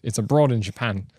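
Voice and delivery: lightly put-on British accent. Shown as a demonstration. Showing off the name as a pun, British accent. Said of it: "I just nailed that accent".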